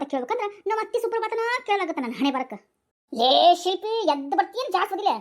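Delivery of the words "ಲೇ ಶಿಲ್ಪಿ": calling out loud. Acted. Mother-in-law calling daughter-in-law.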